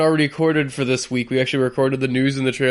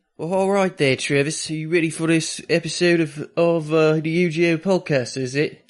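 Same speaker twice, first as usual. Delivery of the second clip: exaggerated, overdone, put-on Cockney accent. Podcast host opens the episode greeting Travis, in an overdone Cockney accent. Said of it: "I'm a little too Cockney".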